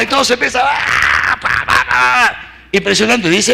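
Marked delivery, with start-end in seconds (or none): 0.6-1.4 mock war cry. Israel shouts at the order. 1.4-2.6 slow, spaced pa pa pa like pans clanging; imitated banging. Preacher imitating Israelites banging pots, slow.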